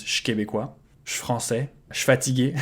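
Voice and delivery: "je québécois" with suis reduced to a bare sh; casual Quebec contraction. Shown as a demonstration. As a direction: drop suis down to sh before the word. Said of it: "get rid of the U as well and it becomes".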